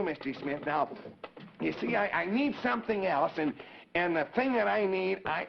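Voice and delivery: put-on high, eager little puppet boy. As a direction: chatter like a cheerful wooden puppet. Howdy puppet explains the flapdoodle.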